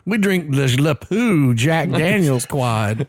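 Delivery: a lightly voiced rich Southern redneck; mild hammed-up bougie redneck voice. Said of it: "you just created the bougie version for red".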